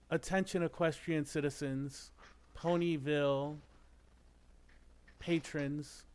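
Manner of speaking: stately royal announcement; formal speech. Acted. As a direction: address the public formally. Princess formal public address.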